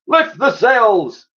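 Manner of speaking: high, loud and very slow; grand admiral order. Acted. Admiral ordering his crew to hoist sails, grand. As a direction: stretch each word like a naval command.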